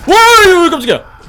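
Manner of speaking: high, loud real startle; startled cry. Real, not acted. Streamer caught off guard by a scare, loud startled yelp.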